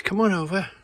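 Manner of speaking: mild high invitation; lightly voiced sister. Sister inviting her brother round, a hint of high voice. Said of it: "she says".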